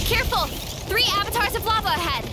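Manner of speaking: sharp battle alert; urgent warning. Acted.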